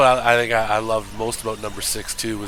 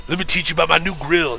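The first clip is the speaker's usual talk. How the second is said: Mister T impression; 4 semitones higher than usual. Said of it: "he's selling grills now".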